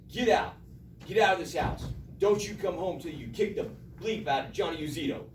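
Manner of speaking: acted stern dad ordering his son out; hammed-up fatherly scolding. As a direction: play the tough old man laying down orders. Acting out angry father in story.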